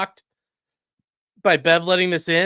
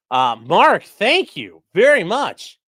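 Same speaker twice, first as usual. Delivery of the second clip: excited thanks; 2 semitones higher, 6 dB louder, slower than usual. Real, not acted. Thanking donor.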